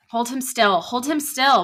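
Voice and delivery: high, loud strained shout. Acted. Father holding Jim down, strained shout. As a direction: shout it over the struggle. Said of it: "my father shouted".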